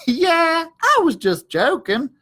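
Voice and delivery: high, loud little dog voice; caught-out dog backpedalling; sheepish Drover. Acted. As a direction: cover up the fear with a laugh. Drover voiced after laughing.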